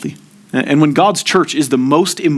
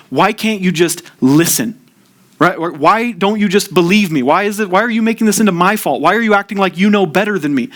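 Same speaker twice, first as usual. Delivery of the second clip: indignant, rising higher as the complaints pile up; mock upset complaint; 5 semitones higher than usual. Pastor voicing an anxious friend who turns on the listener, mock indignant. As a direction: play the hurt friend who feels unheard, voice climbing. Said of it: "They're gonna say".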